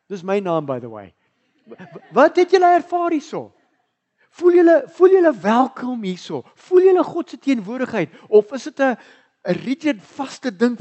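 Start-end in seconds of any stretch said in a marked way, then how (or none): 1.7-6.8 laughing question. Real, not acted.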